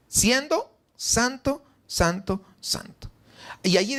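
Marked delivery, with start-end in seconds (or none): 0.1-2.4 "Siendo santo" drawn out slowly and higher; slow emphasis. Shown as a demonstration. Preacher marvelling to the church, slow and lifted. 2.6-3.1 "santo" whispered, soft and breathy. Shown as a demonstration. Preacher echoing holiness to the church, whispered.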